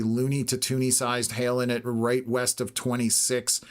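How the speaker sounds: strained voice that is giving out; hoarse voice. Real, not acted. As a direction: talk through a hoarse, failing voice. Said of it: "Sorry, losing my voice".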